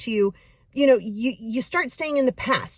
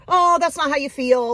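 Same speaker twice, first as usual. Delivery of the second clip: gaslighting parent; 5 semitones higher, 5 dB louder than usual. Retold or imitated. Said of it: "like, super gaslighting".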